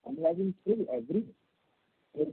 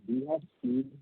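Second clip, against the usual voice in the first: choppy, breaking-up phone line; bad connection; slower than usual. Real, not acted. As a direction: voice cutting in and out. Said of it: "You're breaking up".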